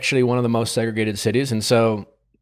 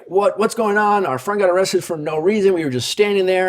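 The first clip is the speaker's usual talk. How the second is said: retold pleading; 7 semitones higher than usual. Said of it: "pleading for their friend".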